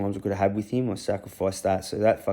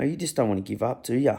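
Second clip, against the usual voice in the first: light, fond teasing question to the dog; 3 semitones higher than usual. Retold or imitated. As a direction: gently rib the dog that won't give up. Teasing the old dog fondly.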